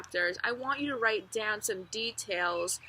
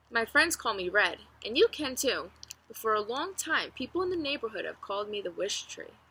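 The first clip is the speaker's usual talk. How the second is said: reading a novel aloud to the class; story narration. Acted. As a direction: tell it like a friendly storyteller, lively and unhurried. Teacher reads chapter three aloud.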